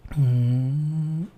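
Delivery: normal talking voice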